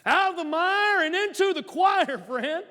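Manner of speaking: Southern drawl, mire said maire; southern accent. Shown as a demonstration. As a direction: lean into a Southern country drawl on mire and choir. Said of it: "say it with a southern accent".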